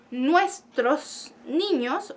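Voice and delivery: drawn out very slowly, syllable by syllable; slow example phrase. Shown as a demonstration. Teacher modelling Spanish for French students, very slow. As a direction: spell the phrase out for learners. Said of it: "en español nosotros decimos".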